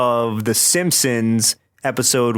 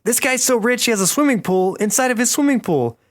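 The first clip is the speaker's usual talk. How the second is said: amazed exclamation; 10 semitones higher than usual. Retold or imitated. Acts out awed cartoon characters.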